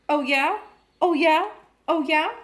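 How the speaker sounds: a parrot mocking the mother back; taunting parrot. A narrator's reading. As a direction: needle the mother with each repeat.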